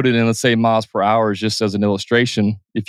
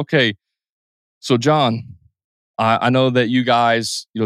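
slowed down a little; 2 semitones lower than usual. Shown as a demonstration. Explaining calmly to a veteran with brain injury. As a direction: take your time with him. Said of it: "I'm slowing it down just a little bit".

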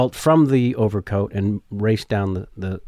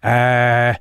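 lightly voiced, rambling Columbo explaining himself; a hint of the shuffling detective pleading for an autograph; Columbo impression. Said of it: "my Columbo goes up an octave and is horrible".

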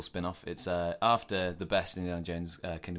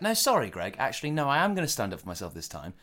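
apologetic but standing his ground, quickening; mild indignation; 3 semitones higher, faster than usual. Acted. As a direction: start high, then press the petty grievance. Worker stands up for himself.

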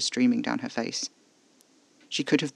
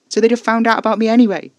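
high, loud, pleading; desperate; 10 semitones higher, 11 dB louder than usual. A narrator's reading. Narrator pleading with Casper, desperate and loud. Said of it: "I said, desperately".

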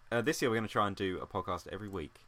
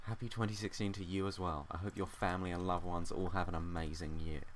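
lower, softer, measured well-wishing as pretend gratitude; mock-grateful reply; 4 semitones lower, 5 dB quieter than usual. Podcaster imagining his reply to a listener's email, mock-heartfelt. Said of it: "I'd reply and I'd be like".

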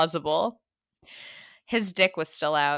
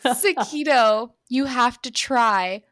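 louder, slower, overdone pleading; hammed-up plea; 5 semitones higher, 4 dB louder, slower than usual. Heroine re-reading her plea to Sakito, hammed-up. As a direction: ham up the desperate plea. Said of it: "me, I'm, like, picturing it".

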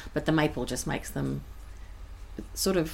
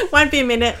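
calling out; 9 semitones higher, 12 dB louder, faster than usual. Real, not acted. Calls out to the visitor.

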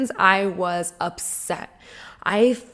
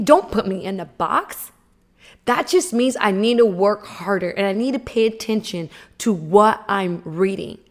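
retold anger. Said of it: "ignited some fire and, like, some anger".

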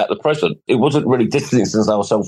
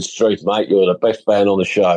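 bad Australian accent. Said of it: "that's my bad Australian accent".

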